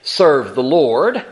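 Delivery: slow, grave warning; a slow, stern prophet's warning. Retold or imitated. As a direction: tell them flatly they can't do it. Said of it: "that tone in his voice".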